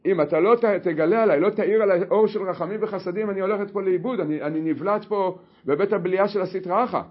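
loud urgent plea to God; pleading cry. Acted. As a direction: beg loudly not to be lost. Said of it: "ואמר לקדוש ברוך הוא". (תחינה רמה ודחופה)

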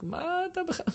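imitating an angry shout in an argument; mock shouting. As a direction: blurt it out as a mock angry yell. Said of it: "ואתה צועק".

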